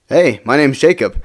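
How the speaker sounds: slow, cheeky self-introduction; smart-aleck. Retold or imitated. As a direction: introduce yourself like a wise guy, drawn out. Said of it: "I was being such a smart aleck".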